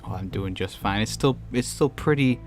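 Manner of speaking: ordinary delivery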